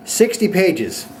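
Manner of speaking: can you believe it, sixty; incredulous repeat. Real, not acted. Host outraged at the script's length, incredulous.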